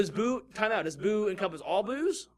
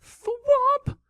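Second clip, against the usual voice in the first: squeaky high; 9 dB louder than usual. Real, not acted. Naming Thwomp with a squeak.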